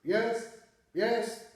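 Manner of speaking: each yes in the same tone; monotone yes. Shown as a demonstration. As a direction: repeat yes without changing the tune. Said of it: "अगर एक ही आवाज़ से, tone से".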